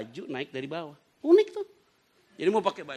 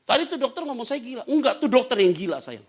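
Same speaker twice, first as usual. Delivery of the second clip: retold mother-son exchange; 10 semitones higher, 7 dB louder than usual. Mother's reassurance voiced in retold exchange.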